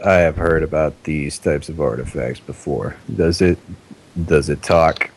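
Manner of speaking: laid-back, lazy stoner voice; a bored stoner, mildly curious. Acted. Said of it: "the voice keeps sounding like it's a stoner".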